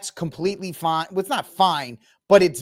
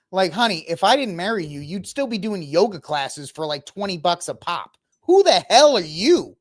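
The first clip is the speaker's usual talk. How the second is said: mock wife rant. Voicing wife's thoughts.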